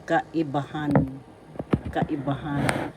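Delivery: "kaibahan" slowly, ending on a stressed HAN; accent on fourth syllable. Shown as a demonstration. Teacher introducing "kaibahan" to learners, slow with stressed last syllable. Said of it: "The fourth syllable has the accent".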